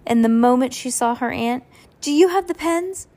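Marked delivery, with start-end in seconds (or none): 2.0-3.1 eager. Acted. Eager child asks.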